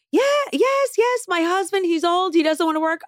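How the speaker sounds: very high put-on voice, rushing to explain; fluttery tailor. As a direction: imitate the flustered tailor confessing. Voicing Michelle explaining.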